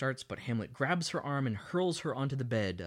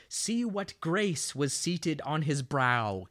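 slow, slightly raised theatrical reading; acted Hamlet quote; 4 semitones higher, much slower than usual. Hamlet shaming the queen with a picture, lightly theatrical. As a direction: draw it out like a stage line.

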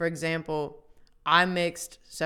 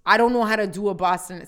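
louder, shaky-confidence stab at Boston; attempted Boston accent; 3 semitones higher, 8 dB louder than usual. Shown as a demonstration. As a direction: try a Boston accent that slips toward the Bronx. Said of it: "do a Boston accent".

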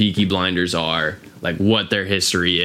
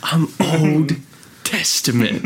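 gangster voice; 7 semitones higher, slower than usual. Retold or imitated. Quoting Alfie line.

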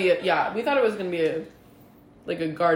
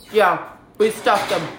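slow, talking through a mouthful; chewing while talking; mouth full; slower than usual. Real, not acted. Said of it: "Sorry, my mouth is full".

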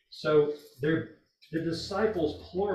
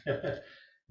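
teasing laugh; 2 semitones higher, 6 dB louder than usual. Real, not acted. Teacher teasing Debbie for speaking up, laughing. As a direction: tease her with a chuckle. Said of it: "I was teasing you there".

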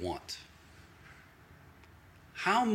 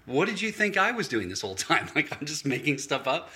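mock-offended comeback, pitched up; mildly offended; 2 semitones higher than usual. Pastor retelling his reply to a doubting friend, mildly offended. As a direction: retell an indignant protest, lightly amused. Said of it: "I'm a little offended".

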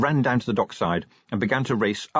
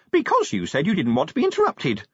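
high, quavering little imp; small voice quavering an excuse; 7 semitones higher than usual. A narrator's reading. Imp excusing itself to an aghast Vimes, quavering. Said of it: "the imp quavered".

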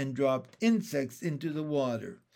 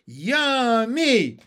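high, loud, drawn-out squeal of delight; loud, high cry of greedy delight; gleeful tadpole scream; 8 semitones higher, 10 dB louder than usual. A narrator's reading. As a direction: scream it like hungry baby tadpoles. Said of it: "screamed the tadpoles".

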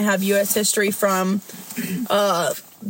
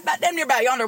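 put-on Southern accent; 3 semitones higher, much faster than usual. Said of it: "favorite accent to do".

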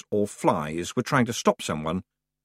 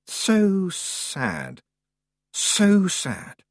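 high mocking singsong pity; taunting, creepy sympathy; eerie creature voice; 9 semitones higher, much slower than usual.

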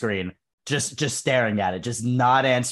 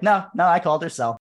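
higher-pitched insistent no, no; emphatic self-correction; 7 semitones higher, 4 dB louder than usual. Retold or imitated. Telling how they checked the phone, emphatic self-correction. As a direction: retell reassuring yourself, voice jumping up.

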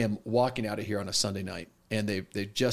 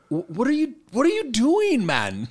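very high, incredulous self-scolding; comic voice in the head; panicked inner voice; 12 semitones higher, 5 dB louder than usual. Retold or imitated. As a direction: plead with yourself, pitched way up, dropping at the end. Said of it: "this voice starts, like, going off in my brain".

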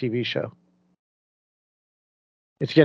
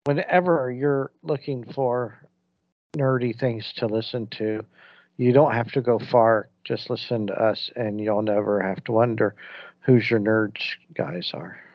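ad parody voice; 4 semitones lower than usual. Acted. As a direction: read it like a corny dating ad, trailing into a whisper. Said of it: "were you really trying to do farmers only dot com right there".

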